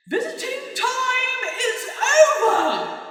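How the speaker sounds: high, slow, regal mock Queen announcement; hammed-up royal decree. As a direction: play the Queen ordering the party over, laughing. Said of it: "Like, as the Queen".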